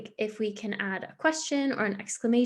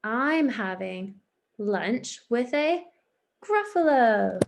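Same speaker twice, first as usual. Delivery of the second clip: dramatic reveal; slower than usual. Shown as a demonstration. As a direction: save the punch for gruffalo. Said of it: "quite exciting or dramatic".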